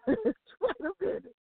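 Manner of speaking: laughing. Real, not acted. Laughing in awe.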